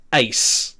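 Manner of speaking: EIS run together as "ice"; a single syllable "ice"; one sound. Shown as a demonstration. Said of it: "is one sound".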